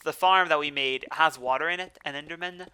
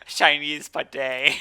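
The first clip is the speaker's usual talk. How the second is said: laughing; 4 dB louder, slower than usual. Real, not acted. Laughing over the dish's name.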